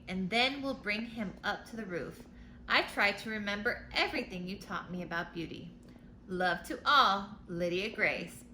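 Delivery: storybook letter read aloud; reading to children. A narrator's reading. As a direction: read it like a bedtime picture book.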